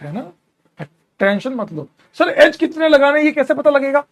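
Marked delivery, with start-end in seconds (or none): 2.2-4.0 student asking. Pretend. Teacher voices student's question.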